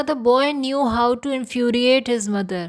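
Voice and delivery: very slow, careful teacher reading; slow example sentence. Shown as a demonstration. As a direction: read it out slowly for learners.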